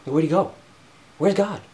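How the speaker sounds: put-on a lost child calling for God; whiny lost baby. Someone who lost God whining like a baby. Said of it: "like a freaking baby".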